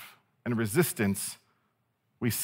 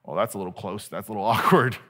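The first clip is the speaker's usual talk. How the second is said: awkward Judas; 4 semitones lower than usual. Acted. Preacher picturing Judas overhearing the narrator, mock-awkward aside. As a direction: mumble it as if caught out, breaking into a small laugh. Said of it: "I just picture Judas going".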